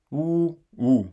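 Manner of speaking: ordinary delivery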